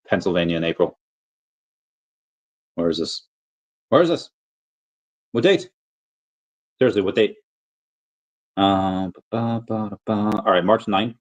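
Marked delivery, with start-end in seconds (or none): 3.9-4.3 high, rising, puzzled question; baffled. Real, not acted. 5.3-7.4 baffled. Real, not acted. Puzzled question about the date.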